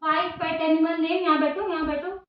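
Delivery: put-on slow, patient tutoring voice to a small boy; mother quizzing her son on revision; teaching a child. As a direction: coax the answers out slowly, like homework time.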